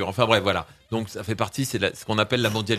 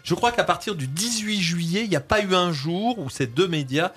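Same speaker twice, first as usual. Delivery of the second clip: ironic; 5 semitones higher than usual. Acted. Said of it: "vous avez compris que j'ironise".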